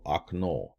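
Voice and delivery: "okno" said ahk-NO; unstressed O as ah. Shown as a demonstration. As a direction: open the first vowel of "okno" to ah, stress the last syllable. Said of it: "last syllable".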